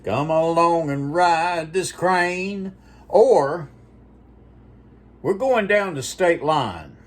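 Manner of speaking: imitating Jackie B, putting a C sound where every T goes; C's for T's. Friend imitates Jackie B's C-for-T speech, mock voice. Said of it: "C's for T's is".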